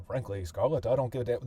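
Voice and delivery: a light hint of old-movie mid-Atlantic accent; lightly quoting a Gone with the Wind star in mid-Atlantic accent; mild mid-Atlantic accent, a passing imitation. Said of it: "kind of movie accent of the period".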